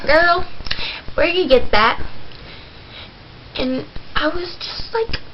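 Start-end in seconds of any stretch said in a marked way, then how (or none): 0.1-2.0 sassy auntie, higher and louder; loud sassy aunt demanding answers. Retold or imitated. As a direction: call her out like a nosy auntie. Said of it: "she was like".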